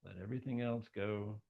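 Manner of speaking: unhurried, with long pauses between phrases; measured, spacious guiding voice; guided meditation. Acted. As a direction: gently lead listeners into a visualization. Leads a guided visualization.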